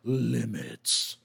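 slow, low, threatening; a hint of dark menace; menacing sword voice. Backpack voice replies.

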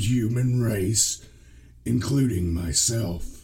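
slow, menacing killer voice; Carl Panzram scary voice. Acted. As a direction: read it like a remorseless murderer's confession. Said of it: "give him a scary voice".

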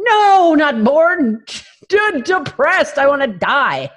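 high, loud, hammed-up protest; exasperated shout. Daughter correcting clueless mom, exasperated mock wail. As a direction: wail it in comic exasperation, breaking into a laugh. Retold outburst at uncomprehending mom.

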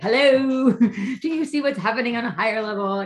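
mock urgent plea, half laughing; exasperated wake-up call. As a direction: shake people awake with a laugh. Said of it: "wanna shake all of them awake and be like".

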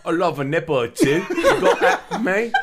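hammed-up English accent with laughter; fake English accent. Hustler sweet-talking women, in hammed-up English accent. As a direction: lay the English accent on thick. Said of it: "My fake English accent?".

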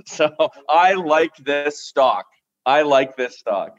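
"I like this stock" slow, leaning on "I"; stress on I. Real, not acted. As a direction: say it slowly, meaning it. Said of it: "just a feeling I have in my bones".

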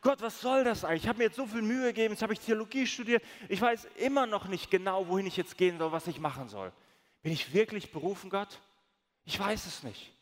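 rushed, whiny grumbling at God, partly sped up; retold complaint to God on the beach in Spain, fast, whiny and grumbling; mock grumbling.

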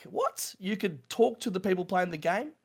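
sudden high-pitched what in disbelief; surprised what. Retold or imitated. Caught off guard by his mate's idea, a startled high what. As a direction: jolt up in pitch, stunned. Stunned reply to mate's suggestion.

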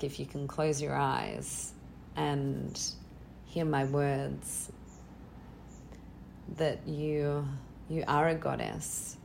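quiet, sincere closing words, slowing down; soft blessing to the audience. Real, not acted. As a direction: gently tell listeners they are divine. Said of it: "just a whisper to the, to the audience".

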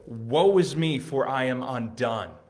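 loud, high cry of woe; anguished cry. Acted. Prophet Isaiah crying out before God, loud and high. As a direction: cry it out, overwhelmed.

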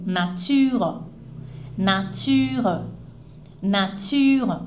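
nature with the final E dropped, ending on the R; French nature. Shown as a demonstration. Teacher showing the silent final E in nature. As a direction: say nature, let the last E fall away. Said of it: "Aquele E do final ... mas ele é caído".

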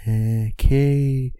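high, drawn-out, strained word; nervous edging. Acted. Man creeping out on the fire escape, nervous high voice. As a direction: stretch it high as if edging carefully.

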